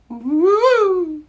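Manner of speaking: high, loud "Woo!"; wild cheer; excited whoop. Real, not acted. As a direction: let the heat burst out. Reacts to the spicy wing.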